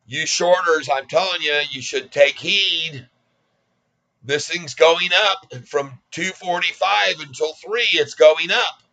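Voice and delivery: talking straight to short sellers, slow and insistent; warning the shorters. Real, not acted. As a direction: lay it down to the shorters, slowly.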